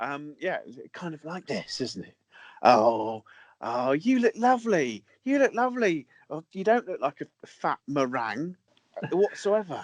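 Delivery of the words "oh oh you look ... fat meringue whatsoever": fake polite, sarcastic, put-on nice voice. Showing off the speaker's own polite voice; mock polite voice. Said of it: "that's just my my basically my my polite voice".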